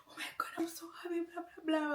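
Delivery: high, rapid mock-happy gush; mock excitement. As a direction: imitate him gushing, racing through it high. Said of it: "He just went on to say".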